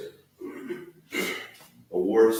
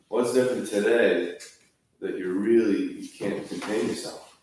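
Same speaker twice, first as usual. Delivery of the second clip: a hint of a worried wife, raised and urgent; wife's puzzled question; 2 semitones higher, 4 dB louder than usual. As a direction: press him on why today is different. Husband comes home crying, wife asks.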